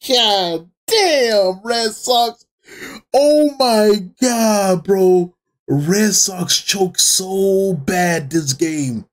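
slow, drawn-out real astonishment; stunned disbelief. Real, not acted. Fan reacting to the Red Sox choking, stunned and drawn-out. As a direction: stretch the words out in disbelief.

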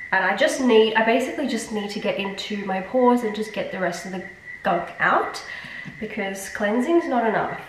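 blocked-nose nasal voice. Real, not acted. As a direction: speak through a stuffed nose. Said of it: "Sorry about the nasal voice".

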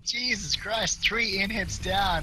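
roaring over the comeback; excited shouting. Real, not acted.

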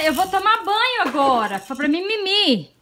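put-on high, soft voice for baby; baby talk. Baby talk about bath and sleep.

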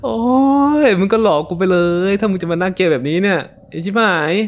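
loud, high scolding at a monster; angry yelling. Real, not acted. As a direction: tell the ugly thing off, furious and rattled. Yelling at the scary mob.

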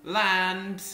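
slow grand prophecy voice; solemn goddess voice. Acted. Voicing the goddess to the player, slow solemn intoning. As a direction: intone it slowly like an oracle. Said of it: "I don't know why I'm talking like that".

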